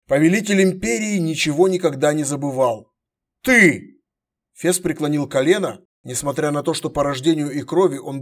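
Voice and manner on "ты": startled exclamation. Acted. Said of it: "Его холодные глаза расширились".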